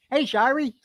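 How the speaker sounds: high mock hey from John; lightly voiced teasing call; high retold greeting to an old schoolmate; imitated cocky greeting. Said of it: "He called me Shirey".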